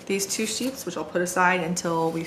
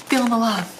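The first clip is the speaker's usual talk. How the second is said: higher, louder sarcastic quip; mock hurt sarcasm; 5 semitones higher, 5 dB louder, faster than usual. Daughter answers dad favoring her husband, mock hurt sarcasm. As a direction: play up being the slighted daughter.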